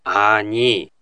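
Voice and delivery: slow, phrase by phrase with pauses; slow version. Shown as a demonstration. Slow dialogue drill for listeners, phrases apart. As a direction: lay out each chunk for learners. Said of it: "ゆっくりバージョンで確認してみましょう".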